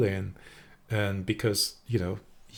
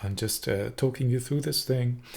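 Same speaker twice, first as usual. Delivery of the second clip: softer, easy and unhurried; calm, soft guiding voice; 5 dB quieter than usual. Shown as a demonstration. Coach showing the cook's relaxed on-camera voice, soft and calm. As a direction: gently talk the viewer through it. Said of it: "It's like".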